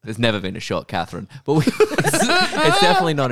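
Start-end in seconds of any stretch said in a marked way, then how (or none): 1.5-3.3 laughing through the words, higher. Real, not acted. Podcaster cracking up over short Catherines, laughing. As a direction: laugh while saying it.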